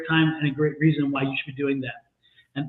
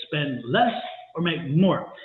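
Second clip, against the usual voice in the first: slow repeat; 3 semitones lower, slower than usual. Shown as a demonstration.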